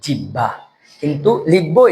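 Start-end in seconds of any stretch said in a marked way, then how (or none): 0.0-0.5 জিহ্বা said as jibba, b doubled; জিহ্বা as everyday jibba; common wrong say. Shown as a demonstration. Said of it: "আমরা বলি কি".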